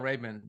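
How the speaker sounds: Ray-Ban said like "RAY-bun"; Middle Eastern pronunciation. Shown as a demonstration. Admitting how he used to say it, Middle Eastern pronunciation. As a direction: reduce the "a" in Ray-Ban's second syllable. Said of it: "I was called".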